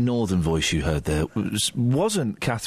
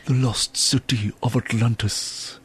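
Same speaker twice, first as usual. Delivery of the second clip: mock impression; 2 semitones lower, slower than usual. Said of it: "some of my great impressions".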